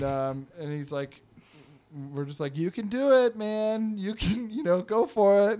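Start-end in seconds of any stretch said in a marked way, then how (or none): 2.6-5.6 put-on higher-pitched pep talk to a child; coaxing, imitated encouragement; encouraging adult. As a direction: cheer on a discouraged kid, gently hammed. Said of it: "we're feeling bad for this fucking kid".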